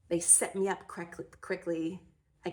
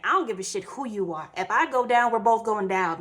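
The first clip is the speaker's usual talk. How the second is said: gritty defiance; 3 semitones higher, 6 dB louder than usual. Retold or imitated. Clinging to nurse's neck.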